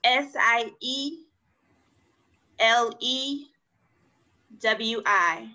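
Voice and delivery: slow letter-by-letter spelling. Shown as a demonstration. Teacher spelling a word for a student, slow letters. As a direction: give each letter slowly. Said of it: "how to spell it".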